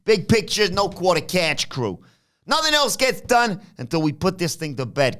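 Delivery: hammed-up pep talk in a high voice; Tony impression. Mimicking Tony rallying his tag team partners, high-pitched. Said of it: "And Tony says".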